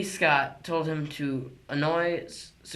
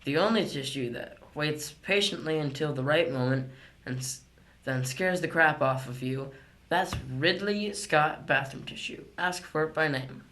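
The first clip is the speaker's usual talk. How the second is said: chipper 1950s ad. Pretend. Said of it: "give a shout out to our real sponsors".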